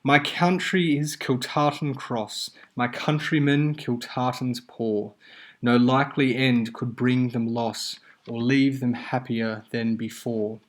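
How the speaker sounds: reciting the airman's calm lines to students; poem recitation. Acted. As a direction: let the balanced lines land evenly. Reading the second quatrain.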